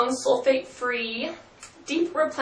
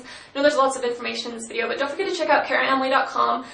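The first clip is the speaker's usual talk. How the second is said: talking fast; faster than usual. Real, not acted. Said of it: "talking so fast".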